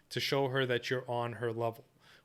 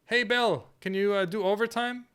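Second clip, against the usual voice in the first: higher, louder boss hailing an employee; boss calling out; 7 semitones higher, 3 dB louder than usual. Pretend. Boss asking Bill for overtime at work, calling out. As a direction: call across to a worker with a request. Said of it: "Maybe you're at work".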